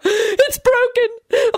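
very high, drawn-out wail; wailing scream. A narrator's reading. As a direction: cry out that it hurts, stretched and high. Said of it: "Lady Fanshawe screamed from the floor".

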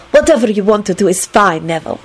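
mildly pleasant, easy assent; agreeable. A narrator's reading. Cosmina letting Neville decide, agreeably. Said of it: "she said agreeably".

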